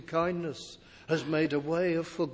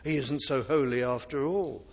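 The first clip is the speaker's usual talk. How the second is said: mock reassurance. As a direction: shrug it off like a smooth deceiver. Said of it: "He's a God of love, you don't have to worry".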